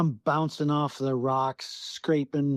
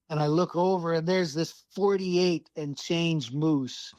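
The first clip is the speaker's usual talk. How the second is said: ordinary talk, nothing marked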